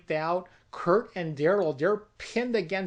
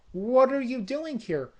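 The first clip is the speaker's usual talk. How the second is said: put-on little girl voice; 5 semitones higher than usual. Child voiced in story.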